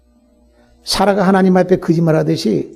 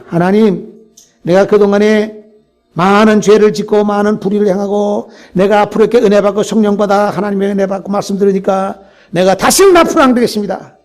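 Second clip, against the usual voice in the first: fervent prayer; 3 semitones higher, 3 dB louder than usual. Retold or imitated. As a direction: pour out a vow to God, building up. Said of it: "우리가 기도할 때". (점점 고조되는 간절한 기도)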